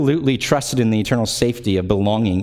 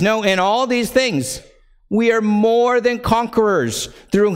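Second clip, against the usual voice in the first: raised, ringing scripture reading; 10 semitones higher than usual. Acted. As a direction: proclaim the verses like a preacher. Reads scripture aloud, raised.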